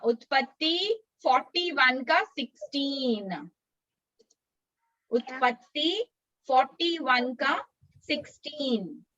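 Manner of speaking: measured, spaced-out reference; slow verse reference. Shown as a demonstration. Teacher gives children the verse reference, measured recitation. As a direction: give the reference piece by piece.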